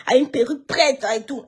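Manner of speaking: lightly mocking Poupi's talk. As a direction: play the rich friend brushing you off, softly. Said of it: "Poupi, elle dit que".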